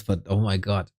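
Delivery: talking through a yawn. Real, not acted. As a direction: stretch it out mid-yawn. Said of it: "Sorry, um, for the yawn".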